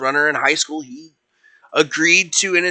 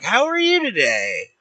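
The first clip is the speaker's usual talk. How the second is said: brightly acted, higher-pitched greeting; pleased greeting; 6 semitones higher than usual. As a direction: greet the coach with a lifted voice. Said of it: "Penny looks up and it's Gorbag".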